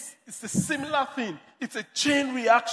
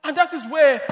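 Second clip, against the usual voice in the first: raised, emphatic preacher's delivery; forceful preaching; 3 semitones higher, 6 dB louder than usual. Real, not acted. Preacher urging congregation to acknowledge God as source, forceful preaching. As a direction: preach it out with punched phrase endings.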